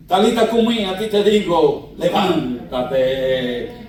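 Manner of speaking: firm command, last word drawn very slow; commanding call. Acted. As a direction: raise her with authority. Jesús resucita a la niña. (Jesús ordena a la niña levantarse)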